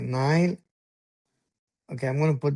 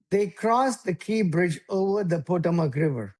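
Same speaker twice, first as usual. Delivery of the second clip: slow, every word of They crossed the Key Bridge spelled out; slow and over enunciating. Shown as a demonstration. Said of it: "let me say it slowly".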